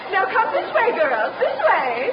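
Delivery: herd them along with a bright call. Acted. Chaperone calling her girls through the Louvre.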